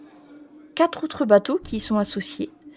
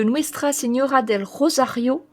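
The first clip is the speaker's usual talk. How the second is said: Spanish accent; 2 semitones higher than usual. Real, not acted. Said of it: "Mon accent espagnol est pourri".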